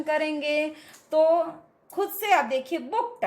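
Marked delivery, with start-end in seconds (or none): 2.8-3.2 बुक्ड ending in a T sound, bookt. Shown as a demonstration. Teacher showing the past ending, T sound. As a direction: finish बुक्ड on T where ED is written. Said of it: "ट का आता है".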